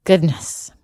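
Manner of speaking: ordinary delivery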